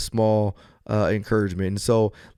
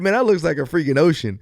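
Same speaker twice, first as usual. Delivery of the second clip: higher, louder incredulous retort; retold amazement; 5 semitones higher, 3 dB louder than usual. Traveler defending his ocean mistake to a stranger, mock amazement. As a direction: protest in amused disbelief.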